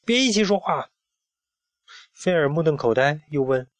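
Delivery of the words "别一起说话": louder. A narrator's reading. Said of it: "佐夫更大声地说".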